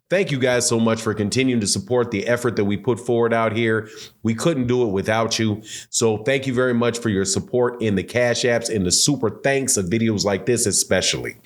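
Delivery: slightly wheezy from allergies. Real, not acted. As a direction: talk with a little raspy breath. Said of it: "if I sound a little wheezy in this video".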